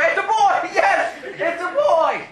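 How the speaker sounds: high-pitched excited cheer, acting out the thrilled onlooker. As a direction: celebrate a birth announcement, voice shooting up high. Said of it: "he was all excited".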